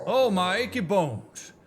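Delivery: slow, groaning elder; lightly voiced old man complaining; achy old man. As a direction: moan about creaky joints, slowly.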